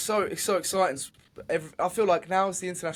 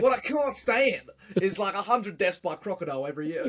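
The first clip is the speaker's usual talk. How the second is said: Australian politician impression; 4 semitones higher than usual. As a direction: drag it out like a ranting Aussie politician. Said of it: "What's the other one where he's like".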